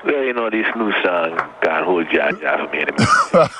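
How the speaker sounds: easy Jamaican lilt, lightly done; Jamaican accent. Pretend. Asked for his best Jamaican accent, a light Jamaican lilt. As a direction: slip into a relaxed Jamaican accent. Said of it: "let me hear your best Jamaican accent".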